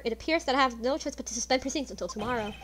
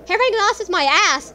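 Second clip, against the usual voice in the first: louder, higher mocking scoff; scornful outburst; 7 semitones higher, 8 dB louder than usual. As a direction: spit out the contempt. Scoffing at the defense.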